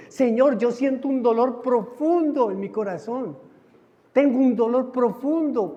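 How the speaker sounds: preacher acting out heartfelt contrition, pitched high; fervent repentant prayer. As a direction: plead from a grieving heart, drawing out the key words.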